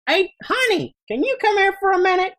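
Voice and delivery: put-on high old man calling his wife. Shopkeeper calls his wife to the counter, high old voice. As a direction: call to the back room in a high old voice. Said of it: "turn around and go".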